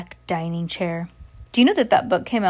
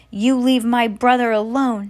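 put-on higher, louder defiant child; shout; 4 semitones higher, 5 dB louder than usual. Little girl defending her brother from witch, shouting. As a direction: shout it up in pitch, protectively. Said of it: "shouted Danny".

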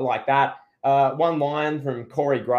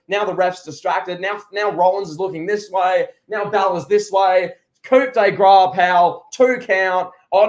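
mock narration; 4 semitones higher, 4 dB louder than usual. Mocking Priest's briefcase antics.

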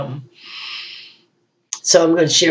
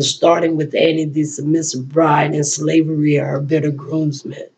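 measured, rhythmic poetry recital with held pauses; spoken word poem. Acted. Poet performing her own piece before an audience, rhythmic recital.

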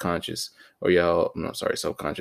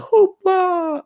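scoffing hoopla; 7 dB louder than usual. Retold or imitated. Mocking the word hoopla.

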